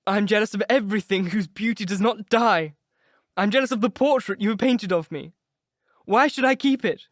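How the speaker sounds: high, loud, near-tearful lament; anguished outburst. Acted. Dorian crying out against the painting, anguished. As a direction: wail at the portrait that will outlive him.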